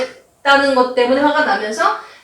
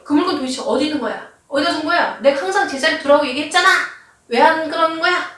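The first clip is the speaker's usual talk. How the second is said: mock angry blame; 4 semitones higher than usual. Husband scolds wife over misplaced item, mock angry. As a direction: rattle off the husband's blaming questions. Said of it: "비난하면서 화를 냅니다".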